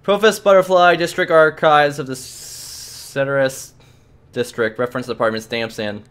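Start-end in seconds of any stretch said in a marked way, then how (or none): 0.1-4.8 stiff clerk. Acted. Clerk reads out office name.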